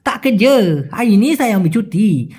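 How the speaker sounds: Malaysian slang, words swallowed and endings stretched; unclear Malaysian slang. Retold or imitated. Worker replying about leave, in Malaysian slang drawl. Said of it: "অতটা স্পষ্ট না বলে".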